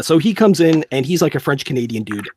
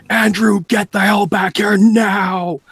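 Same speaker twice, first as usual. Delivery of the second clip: mock yell for help; 8 semitones higher, 5 dB louder, slower than usual. Piercer yelling for help in story.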